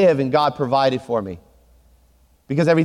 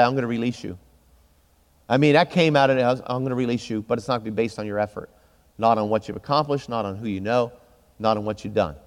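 quiet inner voice; 3 semitones lower, 4 dB quieter than usual. Retold or imitated. God's voice heard while praying.

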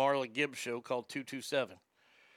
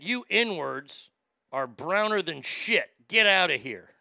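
angry grandma; 3 semitones higher, 6 dB louder, slower than usual. Retold or imitated. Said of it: "She said".

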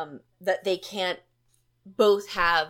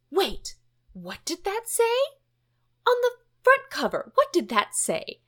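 high, nervous Muppet voice, jumping up on the cover; Grover voice; 4 semitones higher, 5 dB louder than usual. Retold or imitated. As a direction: play a jittery Grover spotting the warning. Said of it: "just did it in a voice".

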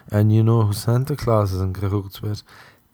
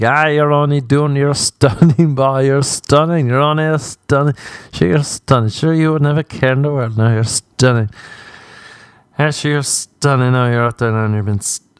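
stupid aunt voice; 5 semitones higher than usual. Retold or imitated. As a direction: stretch out every "stunning" with doting. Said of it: "doing that stupid voice".

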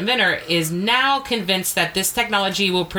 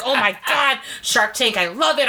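re-enacted fan delight, a bit higher; mock happy excitement; 4 semitones higher than usual. Host retells spotting a Shark Tank article, mildly gushing. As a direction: act out being all happy. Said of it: "I was all happy".

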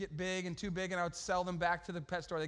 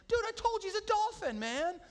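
exasperated mock yell; 14 semitones higher, 3 dB louder than usual. Exasperated at friend.

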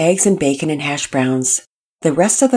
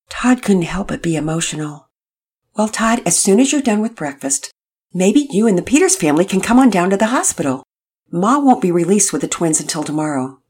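cheerful dad voice; 7 semitones higher, 5 dB louder than usual. Acted. Mister Hicks cheerful dad voice.

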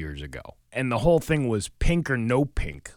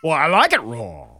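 louder, higher mock retort; hammed-up answer to a fussy diner; playful retort; 4 semitones higher, 5 dB louder than usual. Joking back at a sushi complaint, playful retort. Jokes back as raw-fish lover.

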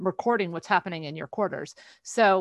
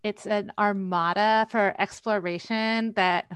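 put-on Valley Girl voice. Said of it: "I don't think Valley Girl voice works".

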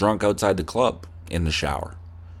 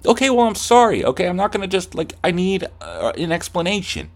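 much higher, loud, defensive; acted exasperation; 8 semitones higher, 3 dB louder than usual. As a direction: plead angrily in a pretend fight. Acted argument, escalating.

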